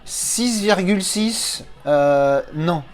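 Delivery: high, slow, incredulous drawl on the score; disbelief. Real, not acted. Reviewer reading the film's IMDb score, incredulous. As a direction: stretch it out in disbelief.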